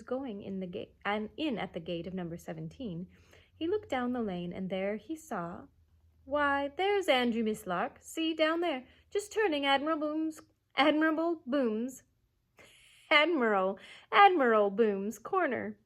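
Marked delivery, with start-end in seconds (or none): 6.2-15.8 put-on loud eager child calling; excited pointing. A narrator's reading. Michael excitedly pointing out dog.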